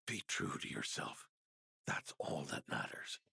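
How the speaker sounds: fading, half-voiced advice; barely any breath left behind the words; breathy last words. The dying knight gives his final advice, fading breathy voice.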